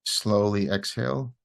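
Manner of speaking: unhurried meditation guidance with long pauses; guided meditation. Real, not acted. Teacher guiding listeners through loving-kindness meditation, calm and unhurried. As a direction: ease listeners into relaxing, leaving space after each phrase.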